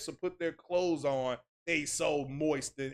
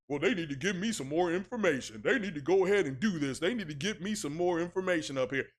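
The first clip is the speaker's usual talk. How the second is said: fast, complaining fanboy voice; lightly mocking entitled fan; mock whiny fan; faster than usual. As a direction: rattle off their demands like a whiner. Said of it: "That's what these guys sound like".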